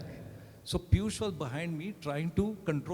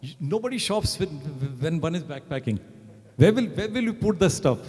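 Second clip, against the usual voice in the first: imitating an indignant colleague's outburst; retold angry shout; 4 dB louder than usual. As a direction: build from exasperation to a raised-voice telling-off. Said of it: "he shouted at me so much".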